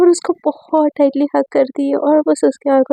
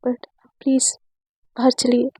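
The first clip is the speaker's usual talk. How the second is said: धीमी मिन्नत; 2 semitones lower, 5 dB quieter than usual. Acted. Pleading with crying friend.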